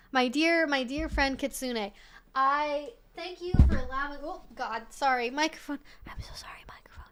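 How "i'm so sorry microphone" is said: hushed apology into the mic; whispering. Real, not acted. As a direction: drop to a soft whisper. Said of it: "should I A S M R whisper".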